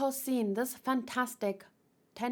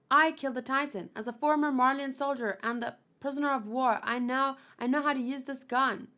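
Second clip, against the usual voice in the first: lightly acted, higher-pitched declaration; declaring young soldier; 5 semitones higher, 3 dB louder than usual. Gabi admitting to the soldier she killed it, lightly acted insistence. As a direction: step up and own the deed, a touch urgent.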